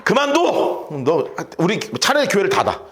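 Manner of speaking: acted scolding of a son, mild heat; mock-angry dressing-down; angry father. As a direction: tell off your grown son in exasperation. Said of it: "갑자기 열받네".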